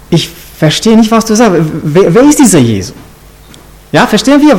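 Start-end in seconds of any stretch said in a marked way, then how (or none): 0.1-2.9 feigned incomprehension, stumbling over the question; playing clueless. Peter denying to the maid that he knows Jesus, playing clueless. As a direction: act as if you have no idea. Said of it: "Und er hat so gemacht".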